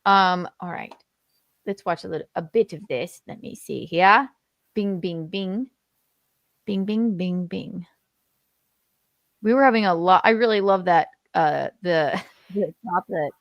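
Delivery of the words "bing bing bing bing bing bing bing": muffled, echoey, far from the mic; echoing tunnel. Real, not acted. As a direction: sound like you're in a tunnel. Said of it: "you sound like you're in a tunnel".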